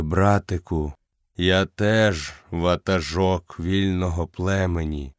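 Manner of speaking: fading leader speaking gently; lightly voiced old wolf, weak and low; dying old wolf.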